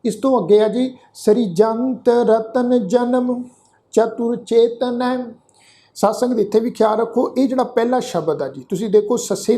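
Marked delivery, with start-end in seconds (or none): 1.1-5.0 slow, measured chanting of the verse; scripture recitation. Shown as a demonstration. Teacher leading the sangat through the shlok, slow recitation. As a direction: recite each syllable slowly for the congregation.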